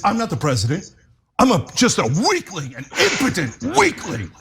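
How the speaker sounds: lightly voiced weak president; mock Biden voice. Mocking Biden's excuse.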